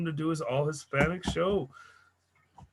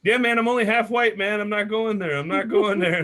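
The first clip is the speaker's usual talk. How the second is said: emphatic refusal; 3 semitones higher, 6 dB louder than usual. Retold or imitated. Retelling own refusal.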